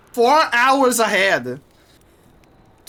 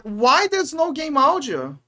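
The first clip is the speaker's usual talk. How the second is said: raised-pitch, indignant outburst; real exasperation; 3 semitones higher, 3 dB louder than usual. Real, not acted. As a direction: complain loudly in real frustration. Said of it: "I'm so mad".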